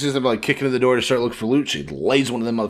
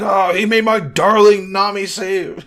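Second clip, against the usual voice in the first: Sanji, simp-esque; 9 semitones higher, 6 dB louder than usual. Acted. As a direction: play a hammed-up simp defending his darling. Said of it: "simp-esque behaviors".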